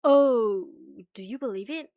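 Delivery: ordinary talk, nothing marked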